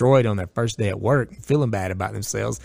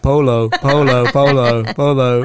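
mock reply-all; 3 semitones higher, 7 dB louder, slower than usual. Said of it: "somebody's like".

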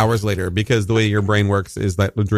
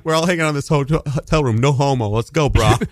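bro voice; 3 semitones higher than usual. Retold or imitated. Mocking the bros' invite.

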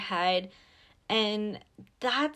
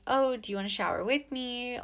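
higher, easy-going invitation; kind; 4 semitones higher than usual. Acted. Inviting a partner to shower afterwards, kind. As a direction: offer it lightly and kindly. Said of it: "be kind".

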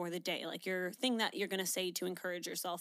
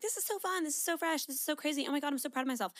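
higher, gushing new-job glee; mock excitement; 6 semitones higher, faster than usual. Imitating someone thrilled at a new job, mock gushing. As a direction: play up the giddy first weeks. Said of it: "at the start, you were like".

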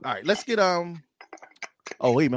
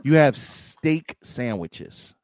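slow mock lecture; much slower than usual. Real, not acted. Mocking Philly cheesesteak rival.

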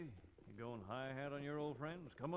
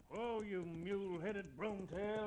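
calling to horse; 6 semitones higher, 3 dB louder, slower than usual. Acted. Reining in an unruly horse.

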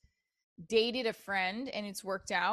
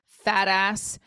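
imagined snappy comeback; 2 semitones lower, 6 dB louder than usual. Retold or imitated. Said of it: "I felt like saying".

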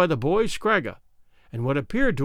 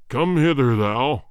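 voice of thunder; 4 semitones lower, slower than usual. Acted. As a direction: thunder it like a cruel king. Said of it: "in a voice of thunder".

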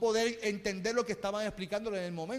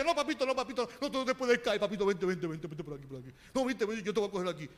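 overprotective parent; faster than usual. Retold or imitated. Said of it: "cada vez que se caiga".

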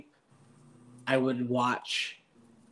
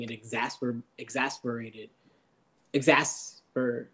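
stumbling high on weed; slurred, searching for the word; stoner. Real, not acted. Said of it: "I'm high right now".

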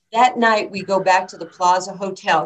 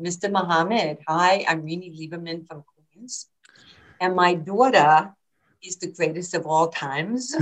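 a hint of a Queens mother introducing her child; lightly voiced proud mother. Mother bragging about daughter to Muhammad Ali, lightly imitated pride. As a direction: lightly imitate a boasting mom. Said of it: "her putting her arm around his neck, going".

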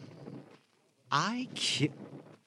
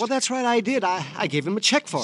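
high, rattled and rushed; nervous, high-pitched stammering; flustered; 12 semitones higher, 6 dB louder than usual. Acted. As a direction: scramble to cover the lie. Suspect flustered under questioning.

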